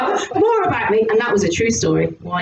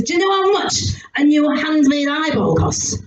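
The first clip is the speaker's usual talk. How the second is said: annoyed husband; 2 semitones higher than usual. Retold or imitated. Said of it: "I was so annoyed".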